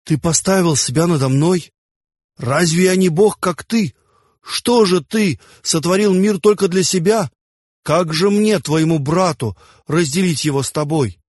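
high, indignant challenge; jealous rage. A narrator's reading. Envious Set challenging his brother over the created world, high angry reproach. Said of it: "зарычал Сет, придя в ярость от зависти".

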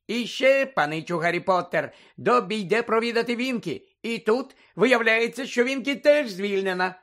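high, glad elf voice; Dobby, joyful. A narrator's reading. Dobby telling Harry about Winky's dismissal, joyful high elf voice. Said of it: "радісно закінчив Добі".

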